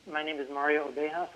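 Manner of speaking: speaking up. Real, not acted. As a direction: raise the voice to be heard. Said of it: "Could you speak up".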